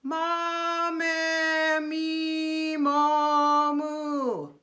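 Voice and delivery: vowels held long in one steady placed tone; steady placement. Shown as a demonstration. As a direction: keep every vowel in the same spot. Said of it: "placement staying in the same place".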